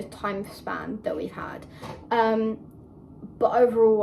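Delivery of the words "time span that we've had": whispering. Real, not acted. Trails off whispering.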